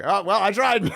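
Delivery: high, breezy give-up; imitating a resigned Richard; shrugging. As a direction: toss it off, mock-resigned. Richard giving up.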